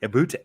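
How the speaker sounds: "about" said like "aboot"; questioning "about" with a Canadian oo. Shown as a demonstration. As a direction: say "about" with an oo vowel, rising as a question. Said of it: "it's the about that gives it away".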